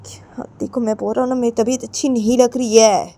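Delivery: lightly voiced father pleading illness; aggrieved father. Unwell father complaining to his family, mildly aggrieved.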